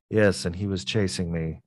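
flat monotone narration. Shown as a demonstration. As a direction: say it with no life, one note. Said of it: "you know, just monotone".

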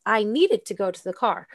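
"needed" most prominent, rest of the sentence lighter; stress on "needed". Shown as a demonstration. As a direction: lean on "needed" as the key word. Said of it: "you hear it in needed".

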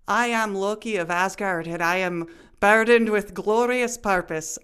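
shaky-skilled Scottish accent veering into Irish; attempted Scottish accent. Shown as a demonstration. Podcast challenge to say a Loki quote, botched Scottish accent. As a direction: try Scottish, land on Irish with strong R's. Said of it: "attempting to say in a Scottish accent".

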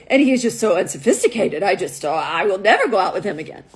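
put-on firm verdict in a light Russian accent, dropping low. Russian model rules out another date, Russian accent. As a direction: finish the refusal as a Russian. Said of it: "This is my best Russian accent".

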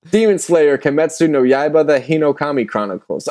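steady robot voice, all in one go. Shown as a demonstration. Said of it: "I had to say it like a robot like this".

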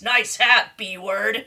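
lightly voiced horror villain; a hint of a slasher's taunt; Freddy. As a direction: toss it off as a mock villain. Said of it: "He says in the Freddy voice".

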